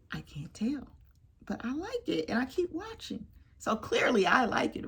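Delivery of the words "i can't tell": soft whispered admission; hushed shrug. Real, not acted. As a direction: say it under your breath. Whispered aside.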